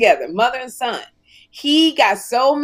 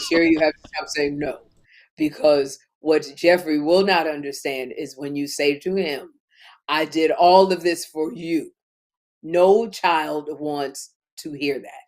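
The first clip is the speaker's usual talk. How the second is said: Oprah Winfrey impression; 6 semitones lower than usual. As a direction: do Oprah, low and grave, dropping the pace. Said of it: "no, that's not how she sounds".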